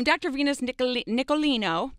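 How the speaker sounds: put-on light Italian accent on the name. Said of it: "Did it with my little Italian accent".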